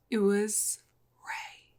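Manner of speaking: soft, hushed dramatic whisper; whispered reveal. Real, not acted. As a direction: lean in and whisper the culprit.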